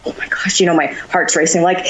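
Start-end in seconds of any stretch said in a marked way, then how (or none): 0.1-0.6 awed breathless whisper. Retold or imitated. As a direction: whisper it in awe. Retelling star-struck moment.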